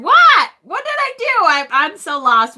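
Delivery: mock Brad. Host playing Brad, who is lost in the chat, in a squeaky baffled voice. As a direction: act baffled and innocent.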